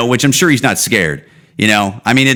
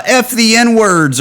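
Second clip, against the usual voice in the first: defiant dying man; 11 semitones higher, slower than usual. Retold or imitated. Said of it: "just come out and just go".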